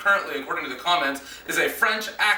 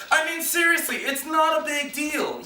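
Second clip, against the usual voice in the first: raised, higher voice, fed up; pitched-up exasperated outburst; 3 semitones higher than usual. Real, not acted. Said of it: "exasperated at Sammy".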